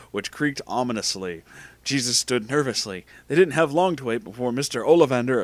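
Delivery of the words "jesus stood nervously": ordinary delivery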